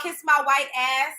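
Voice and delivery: slow, scornful echo of the insult; mocking quote. Mocking the influencer, slow scornful quote. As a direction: repeat it back with disbelief. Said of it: "talking about".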